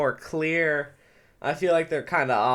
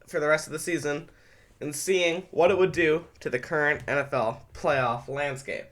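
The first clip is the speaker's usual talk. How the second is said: usual speaking voice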